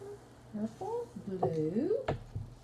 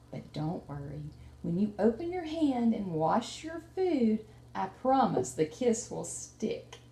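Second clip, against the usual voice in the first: reassuring mommy; 3 semitones lower, 3 dB quieter than usual. Acted. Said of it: "kinda talk like his mommy might talk".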